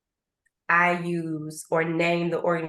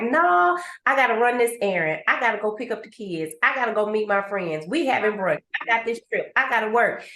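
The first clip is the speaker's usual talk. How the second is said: hurried excuses; faster than usual. Pretend. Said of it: "And you like".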